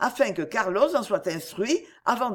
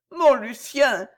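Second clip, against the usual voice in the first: Esther coaxes Lucien tenderly, higher and louder; coaxing; 5 semitones higher, 5 dB louder, slower than usual. A narrator's reading. Esther to her lover, a lightly voiced tender coax. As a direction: call his name like a caress. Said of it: "d'une voix adorablement câline".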